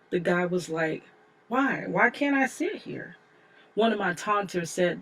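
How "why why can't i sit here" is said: higher-pitched, mildly baffled question; puzzled challenge. Retold or imitated. Boy answering bus taunter about seat, puzzled challenge. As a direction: question it as if it makes no sense.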